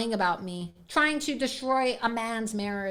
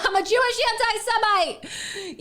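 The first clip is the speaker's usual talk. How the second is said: sarcastic; 8 semitones higher than usual. Pretend. Sarcastic self-mockery.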